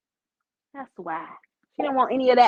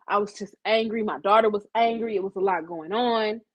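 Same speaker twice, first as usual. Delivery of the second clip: remorseful; 5 semitones lower than usual. Shown as a demonstration. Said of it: "What you do is you say".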